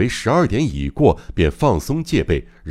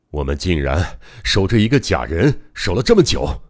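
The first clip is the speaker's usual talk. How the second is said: understated dismay; disappointed. Acted. Doctor slumped in his chair afterwards, disappointed. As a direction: say it in deflated disbelief. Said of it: "失望地说".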